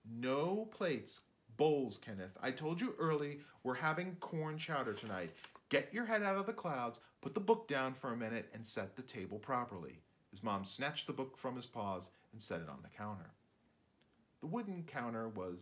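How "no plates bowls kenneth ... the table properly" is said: mom scolding. Acted. Mom correcting son.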